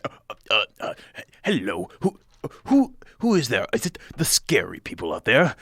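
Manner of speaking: stammering, timid voice behind a door; nervous halfling. Acted. A frightened halfling calls through the door, stammering. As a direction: quaver like a frightened little host. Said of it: "you hear a, a voice from inside".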